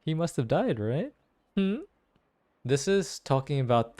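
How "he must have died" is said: ordinary delivery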